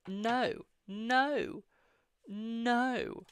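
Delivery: high-pitched Brummie "no"; Birmingham accent. Shown as a demonstration. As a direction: draw out "no" high, in Birmingham style. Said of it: "I used to have a Birmingham accent".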